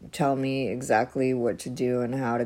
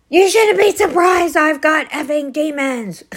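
loud, high, bitter retort; angry outburst; 12 semitones higher, 9 dB louder than usual. Retold or imitated. Husband lashing out at wife during worship evening, angry. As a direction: throw it back at her in frustration.

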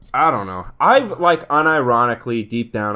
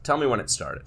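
therapist voice; 5 dB quieter than usual. Acted. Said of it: "That was my impression of a therapist".

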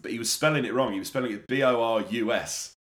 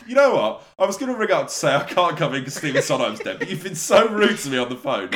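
mock furious rant; 6 dB louder than usual. To rude boss Gary, a laughing mock furious rant. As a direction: shout it, much louder. Roleplay employee quitting angrily.

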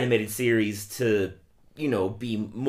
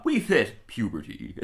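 deep puberty voice; slower than usual. Retold or imitated. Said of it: "the puberty voice was Kevin Michael Richardson".

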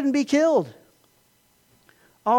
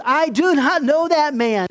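louder, higher, slow insistent denial; vehement denial; 7 semitones higher, 5 dB louder than usual. Retold or imitated. Peter to his accusers, vehement slow denial. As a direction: deny it hotly, word by word. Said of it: "And Peter vehemently denies".

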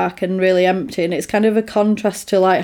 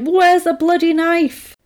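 exasperated; 8 semitones higher, slower than usual. Retold or imitated. Frantic search retold.

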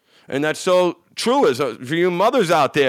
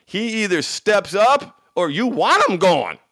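ordinary talk

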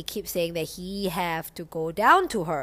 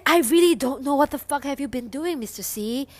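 exasperated; 6 semitones higher, 4 dB louder than usual. Retold or imitated. Her exasperated reply, retold.

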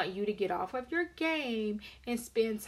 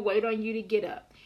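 whispered. Retold or imitated. Sarcastic complaint to husband.

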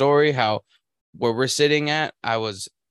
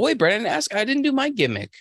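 higher, quick burst of remembering; sudden excited recall; 12 semitones higher than usual. Real, not acted. Host suddenly remembers his own podcast gimmick, high excited blurt.

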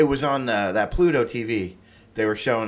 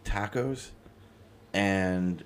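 conspiratorial gossip; 5 semitones lower, 9 dB quieter than usual. Real, not acted. Gossiping while cohost is away.

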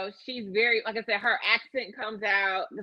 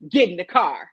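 moderately raised voice, mock order; retold yell; 6 dB louder than usual. Driver to a woman on the street, mildly yelled order. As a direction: retell the driver's yell, a bit loud. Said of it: "yells at her".

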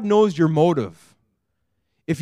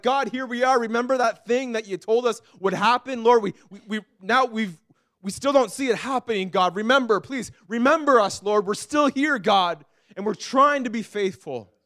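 pleading prayer; 5 semitones higher than usual. Retold or imitated. Voicing couple's prayer.

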